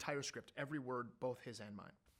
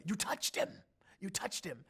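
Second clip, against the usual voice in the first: awed; 6 semitones higher, 4 dB louder than usual. Retold or imitated. Fans' messages quoted.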